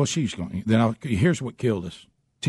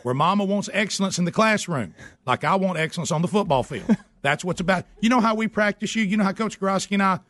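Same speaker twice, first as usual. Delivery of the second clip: much higher, hammed-up scolding dad; mock outrage; 8 semitones higher than usual. Dad ranting at son about bad grades, hammed-up high outrage. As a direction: ham up a dad's dramatic rant.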